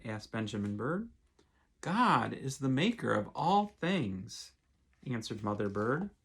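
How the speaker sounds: gentle storybook reading aloud; lightly voiced picture-book narration; reading to children. A narrator's reading. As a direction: read it like a bedtime story for kids.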